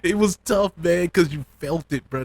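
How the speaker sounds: high, breaking laugh through the words; emotional laugh. Real, not acted. Vlogger recalling the sad scene, high laughing voice. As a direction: laugh it off to hold back tears.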